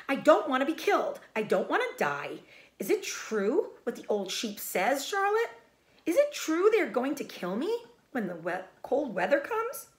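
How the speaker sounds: high, loud frantic pig; panicked pleading. Acted. Wilbur begging Charlotte for truth, high and loud.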